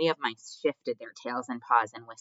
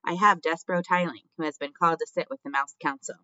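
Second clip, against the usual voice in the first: raised voice, easing toward the end; shouted announcement; 5 semitones higher, 5 dB louder than usual. A narrator's reading. Furlough presenting his brother to the crowd, shouting. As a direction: announce the prisoner over a crowd. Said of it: "shouted Furlough".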